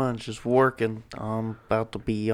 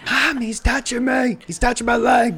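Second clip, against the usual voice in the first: put-on high whiny kid tattling; whiny tattling little sibling; 11 semitones higher, 4 dB louder than usual. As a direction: whine to mom like a little brother. Acting kid tattling to mom.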